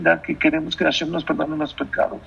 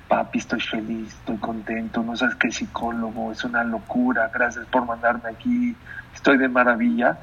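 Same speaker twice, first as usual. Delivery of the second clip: cheerful son's letter; 4 semitones lower, 4 dB quieter than usual. Retold or imitated. Son writes to the king, lightly voiced, forced cheer. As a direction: lower and softer, a lightly voiced son acting happy. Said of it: "¿saben cómo le hizo?".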